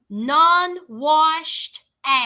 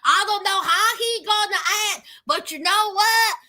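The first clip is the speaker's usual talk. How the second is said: acted-out woman; 5 semitones higher than usual. Woman deciding to tell J K, mock whiny. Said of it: "So she says".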